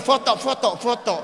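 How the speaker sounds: high, loud, eager calls for photos; excited photo request. Retold or imitated. Comedian telling his manager to snap pictures, high and loud. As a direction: yell foto foto at the manager gleefully. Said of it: "langsung bilang sama manajer".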